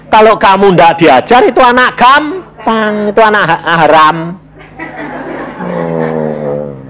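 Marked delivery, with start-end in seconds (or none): 0.1-4.2 calling out. Acted. Pengkhotbah berseru dengan tinggi.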